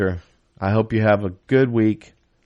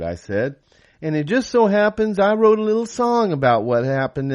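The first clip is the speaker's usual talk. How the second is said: higher put-on singer voice, some words slowed; imitation of a singer; 8 semitones higher than usual. Singer imitating another singer introducing his Oxford song. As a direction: tell the story in the imitated singer's voice. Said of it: "imitation voice".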